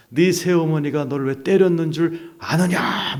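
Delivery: slow, solemn questioning; lightly imitated divine question; voice of God. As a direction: ask it as God would, drawing it out. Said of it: "그리고 질문하셨어요".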